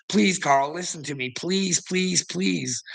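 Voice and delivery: mock begging. Mocking the man who would beg Carl to listen, whiny pleading. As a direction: beg like a desperate little man. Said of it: "Just fucking begging me".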